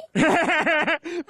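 high, rapid burst of laughter; amused laugh. Acted. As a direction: crack up at your own joke. Laughs at a funny name.

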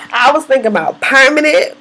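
laughing while admitting it; half-embarrassed laugh through the line; sheepish laugh. Real, not acted. Confessing a perm idea, laughing.

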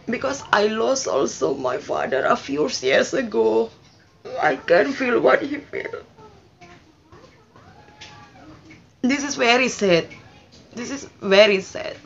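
fighting back real tears; talking of his late father, near tears; tearful. Real, not acted. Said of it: "again I cry".

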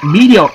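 "Meteor" said as "MEE-dee-oh", no final R; misspelt reading. Shown as a demonstration. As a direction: drop the R from "Meteor", end on a long "oh". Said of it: "They didn't even put the R".

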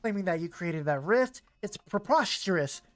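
lightly voiced old woman; a hint of a kindly old lady. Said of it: "let me get my old lady voice out".

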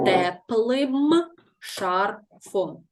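Теплим шарфом said very slowly, leaning on the ending им; slow dictation. Shown as a demonstration. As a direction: stretch out Теплим шарфом for the class. Teacher stresses the ending.

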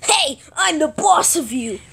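lightly voiced bossy monster; a hint of a boss voice; Gigan. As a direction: state it as the toy in charge. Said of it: "Gigan goes like this".

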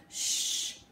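whispered little shush. Acted. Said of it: "put his finger to his lips".

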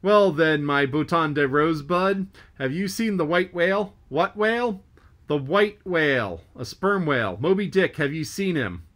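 a mate calling across to a ship; lightly voiced Stubb. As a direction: press him about the whale, calling across. Stubb questions the French mate.

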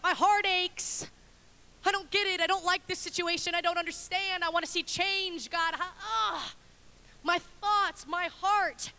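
earnest lament in David's voice; voicing David's lament. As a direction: plead like a troubled king. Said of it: "He's even talking about".

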